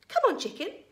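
high-pitched animal call; coaxing. A narrator's reading. George urging the hen toward the spoon, coaxing. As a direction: urge the bird on, high and loud.

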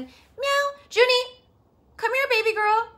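high, loud coaxing call; calling a pet. Real, not acted. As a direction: call the cat over in pet talk. Calling her pet over.

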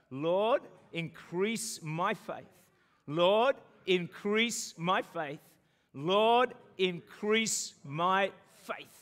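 loud "Lord", then very slow words; slow fervent prayer. Real, not acted. Pastor leading the church in prayer, loud then very slow. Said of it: "you're gonna say three times".

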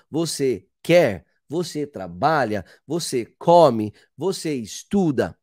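"Você quer?" "Você come?" said slowly as questions, with a questioning tune at the end; question intonation. Shown as a demonstration. Teacher shows Portuguese question intonation, slow and deliberate. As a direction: mark each "Você trabalha?" clearly as a question by tune alone. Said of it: "nós usamos a entonação".

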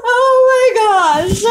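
high, slow, breathless laughing oh my gosh; real helpless laughter, voice squeaking high; crying with laughter. Real, not acted. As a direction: wheeze it out between fits of laughter. Helpless laughter at game noise.

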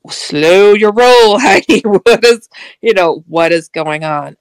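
slow, drawn-out calming friend voice; a lightly voiced friend reining her in; friend telling her to slow down.

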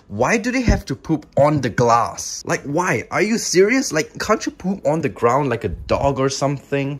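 mock-outraged ranting at the spiders; playful indignant complaint, climbing on the question; exasperated rant. Real, not acted. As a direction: huff about it in disbelief. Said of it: "rephrase my, uh, rant".

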